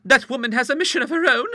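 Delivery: high-pitched, hesitant objection; nervous genteel lady venturing a view; timid. A narrator's reading. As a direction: pluck up nerve to disagree, voice high. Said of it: "suggested timidly".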